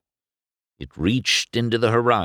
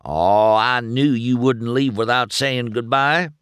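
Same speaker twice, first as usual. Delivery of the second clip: louder, higher happy welcome; happy greeting; 5 semitones higher, 4 dB louder than usual. A narrator's reading. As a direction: greet a returning friend with pleased volume. Townsfolk happily greet returned McQueen.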